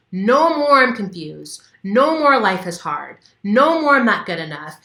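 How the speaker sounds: slow, loud chant of release; demo scream. Shown as a demonstration. Coach showing how to scream into the pillow, loud and slow. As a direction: yell each line out into the pillow. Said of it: "as you're screaming".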